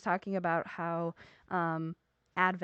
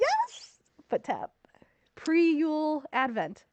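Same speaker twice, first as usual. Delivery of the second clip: excited; 8 semitones higher, 3 dB louder, slower than usual. Real, not acted. Excited realization.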